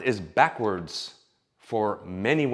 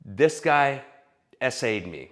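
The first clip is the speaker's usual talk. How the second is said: mock accuser voice; 3 semitones higher, 3 dB louder than usual. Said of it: "tries to spin it into".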